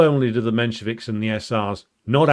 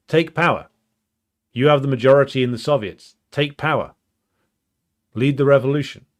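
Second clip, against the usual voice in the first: Lenin; 3 semitones higher, 3 dB louder than usual. Retold or imitated. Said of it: "what Lenin and the Bolsheviks were saying".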